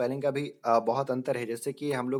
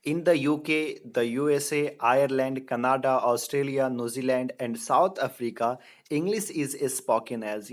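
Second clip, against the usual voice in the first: slow, deliberate question reading; quiz reading; 3 dB louder, much slower than usual. Shown as a demonstration. Teacher reading a quiz question slowly to the class. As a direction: spell out the question slowly for students.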